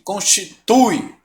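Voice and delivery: Constitui said slowly, syllable by syllable. Shown as a demonstration. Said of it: "Som do U". (Constitui, devagar, sílaba por sílaba)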